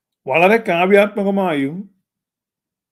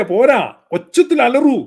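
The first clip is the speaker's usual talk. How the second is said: mock preacher urging; 4 semitones higher, slower than usual. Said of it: "Reji Sasthamkotta പറയാ".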